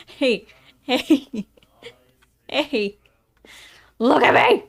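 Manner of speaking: loud call for attention. Acted. Player calling the bartender over, loud. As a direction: shout to get noticed across the bar.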